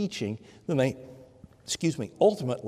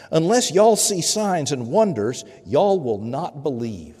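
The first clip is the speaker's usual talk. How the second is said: Southern accent; 2 semitones higher, 6 dB louder than usual. Shown as a demonstration. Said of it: "I'll read this in Southern".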